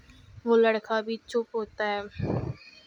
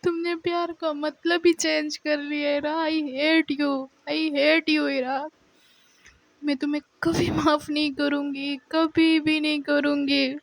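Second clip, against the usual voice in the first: crying; 4 semitones higher than usual. Retold or imitated. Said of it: "تو وہ ایسے روتی ہے".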